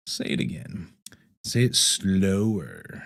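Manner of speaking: breath-only whisper, slowing right down; enthralled whisper. Acted. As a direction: whisper it slowly, savoring each word.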